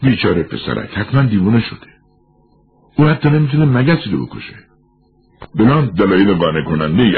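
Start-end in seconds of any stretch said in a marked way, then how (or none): 0.0-4.6 agitated, high-pitched outcry, mildly raised voice; crying out. A narrator's reading. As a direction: cry out in protest, pitch climbing steeply. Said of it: "فلیکس چرخی خورد و فریاد کشید".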